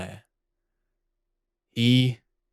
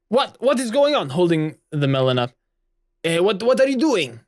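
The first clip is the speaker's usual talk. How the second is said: confused; 6 semitones higher than usual. Acted. Confused character calls after him.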